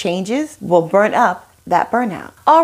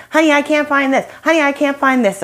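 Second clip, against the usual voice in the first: higher mock helpless husband calling for help; a light, raised-voice impression of the helpless husband; mock husband whining; 5 semitones higher, faster than usual. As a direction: play the husband who can't find anything. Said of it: "he's asking me to find his things".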